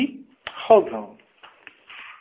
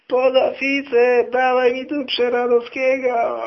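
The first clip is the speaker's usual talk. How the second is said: high, drawn-out calling out; slow, high-pitched mock yell; yelling from the doorway; 9 semitones higher, slower than usual. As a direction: imitate an officer bellowing for someone across the barracks. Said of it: "drze się od samego wejścia".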